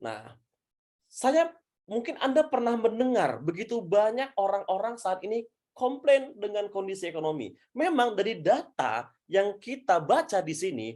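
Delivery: lightly played presenter addressing an audience; demonstration presenter. Shown as a demonstration. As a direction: play with intonation, lifting key words. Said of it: "Sehingga saya bisa ngomong begini".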